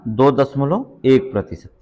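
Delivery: teacher hammering the answer home; slow emphatic answer. Shown as a demonstration. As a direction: drill दो दशमलव एक प्रतिशत so it sticks. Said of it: "याद रखिएगा".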